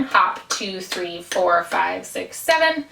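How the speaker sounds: hop, two, three, four, five, six, seven counted evenly, each beat the same length. Shown as a demonstration. Dance teacher counting evenly to contrast the jig. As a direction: count it flat and even like a metronome. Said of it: "keeping a really even beat".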